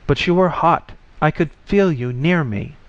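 high, eerie disembodied voice. A narrator's reading. The voice speaking to Anders.

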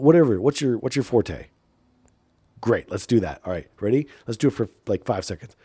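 ordinary delivery

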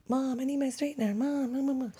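high, pleading mock kid voice calling mom; imitating a whiny teenager. Mom mimicking her daughter demanding the straightener, in a whiny high voice.

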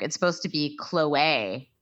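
Chloe said KLOH-ay; Khloe as KLOH-ay. Shown as a demonstration. Passing on the reality star's version of her name, KLOH-ay. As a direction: end Chloe on an AY sound, KLOH-ay. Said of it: "says it's supposed to be".

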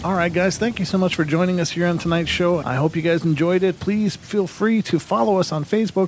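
upbeat announcer-like wrap-up; podcast sign-off. Acted. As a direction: thank the listeners and plug the show. Podcast host's closing plugs.

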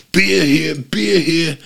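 loud, high vendor's cry; beer vendor call. Retold or imitated. Imitating the beer man calling out in the stands. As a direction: belt it out like a stadium hawker.

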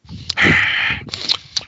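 Tony Soprano's labored breathing sigh; heavy heartburn sigh. Retold or imitated. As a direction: exhale like a man with heartburn. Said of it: "he's going".

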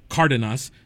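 Cardenas as CAR-denas, first A stressed; stress on first syllable. Real, not acted. Host resuming the list with corrected name, Cardenas stressed on CAR. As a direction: put the weight on CAR in Cardenas. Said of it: "They push it to the first A".

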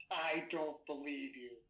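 slow, imitated tough-guy disbelief. Agent leaning down to the witness before leaving, tough-guy menace. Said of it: "turns back on the tough guy affect".

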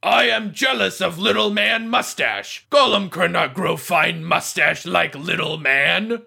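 golem. Acted. Door golem admires mustache.

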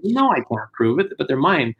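protesting dad. Retold or imitated. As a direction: imitate dad insisting to a policeman.

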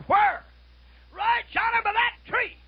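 high, loud pointing out the deer; excited hunter. Retold or imitated. Hunter to preacher, excitedly pointing at the deer. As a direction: call it out eagerly. Acted hunting dialogue.

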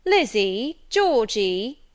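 loud calls across the house; boy loudly calling his sisters. A narrator's reading. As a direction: shout the names to summon the sisters. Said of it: "calling to his sisters".

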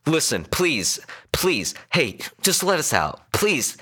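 high, urgent begging; desperate pleading. A narrator's reading. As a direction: beg the driver to stop. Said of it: "His emotions turned quickly then".

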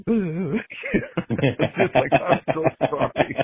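high-pitched imitation of breaking down, half laughing; mock blubbering. Man recalling losing it during a deathbed prayer, mock blubbering. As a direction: act out falling apart, voice jumping high. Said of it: "and then I'm all".

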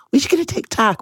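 breathy little whisper. Real, not acted. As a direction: say it as a whispered aside. Hushed aside in podcast chat.

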